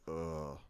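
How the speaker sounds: low, soft disgruntled groan; imitated grumble. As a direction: grumble like an unimpressed moviegoer. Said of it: "I heard actual grumbles like".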